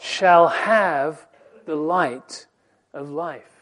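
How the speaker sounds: "Shall have the light" drawn out very slowly; slow emphasis. Shown as a demonstration. Preacher answers his own question, slow and emphatic. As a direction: savor the answer. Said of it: "but what?".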